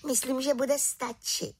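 a cheerful small witch with plans; little witch. Acted. The little witch invites Havran to the village, high and eager.

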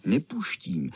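lisping "nepuštím" with sh for s. A narrator's reading. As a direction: lisp it stubbornly like a tiny flea. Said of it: "šišlal blešák".

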